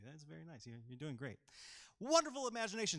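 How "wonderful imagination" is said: higher, louder, lightly posh praise; fading posh gentleman; a touch of the posh voice. Pretend. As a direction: ease out of the toff character. Still in fancy costume voice.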